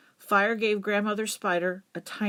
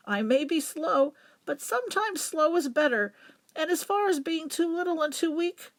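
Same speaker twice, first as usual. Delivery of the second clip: lightly voiced grandmother; 5 semitones higher than usual. Grandmother spider answers calmly.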